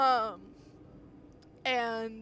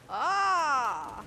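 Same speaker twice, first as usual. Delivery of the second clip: vampire shriek; 3 semitones higher, 8 dB louder than usual. Pretend. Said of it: "I'm doing my vampire voice".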